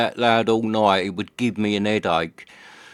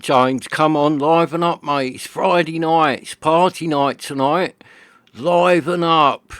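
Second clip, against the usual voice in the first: lively urging; 4 semitones higher than usual. Retold or imitated. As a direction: come on, gee your mate up. Urging hungover mate to liven up.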